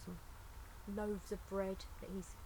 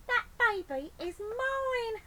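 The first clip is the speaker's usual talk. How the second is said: high, loud, slow and firm; Betty's claim; 10 dB louder, slower than usual. Acted. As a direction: stake your claim slowly.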